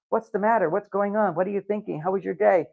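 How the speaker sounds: wife prying into her husband's day; mock prying wife.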